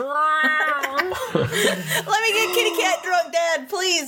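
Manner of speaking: cat voice. Acted. Voicing the cat pleading.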